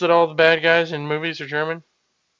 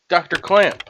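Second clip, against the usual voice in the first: raised-pitch call to the doctor; 4 semitones higher than usual. Acted. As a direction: call out to find someone. Calling out for the doctor.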